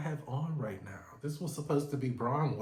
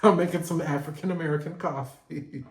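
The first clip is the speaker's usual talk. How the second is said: mock proud line through laughter; mock bragging while cracking up; laughing mock boast; 3 semitones higher, 5 dB louder than usual. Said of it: "I'm gonna be like".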